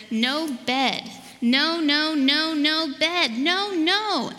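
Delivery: building, drawn-out protest, high and loud; storybook tantrum rising to a high wail; child's refusal. A narrator's reading. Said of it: "I rolled and rolled and said".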